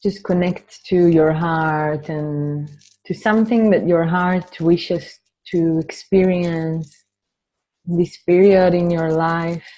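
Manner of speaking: measured opening blessing, leaving space to breathe; guided meditation. Real, not acted. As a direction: gently guide the group inward, unhurried. Leads an opening meditation and dedication.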